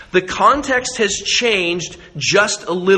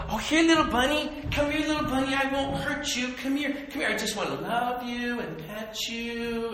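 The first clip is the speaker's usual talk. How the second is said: high, soft, sweet-talking voice; tender high-pitched pet talk; coaxing a bunny; 6 semitones higher, 9 dB quieter than usual. Acted. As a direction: coo gently to a little animal, pitched way up.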